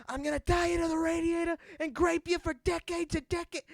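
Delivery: high, loud manic shout; hammed-up villain yell; crazy grape man. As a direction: chase the kids, unhinged. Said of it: "He's like".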